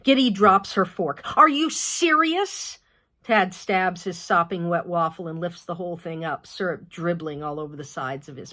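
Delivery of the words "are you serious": high, slow, incredulous question; disbelief. Acted. Mother hearing the toilet broke again, slow exasperated disbelief.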